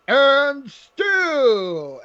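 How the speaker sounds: mock title announcement, long and high; ring announcer. Host mimicking the title announcement, as a ring announcer.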